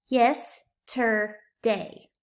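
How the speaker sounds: yesterday split into slow separate parts; teacher sounding out yesterday; slow syllables. Shown as a demonstration. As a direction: stretch yesterday out part by part. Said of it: "blend them together".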